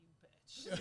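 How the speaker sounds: laughing retold insult; mock grievance through laughter; retold mock indignation. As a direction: lightly imitate his offence. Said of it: "he's like".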